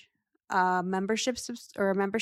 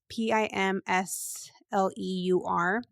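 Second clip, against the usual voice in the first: spelling it out; slower than usual. Shown as a demonstration. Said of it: "this is called Pimsleur".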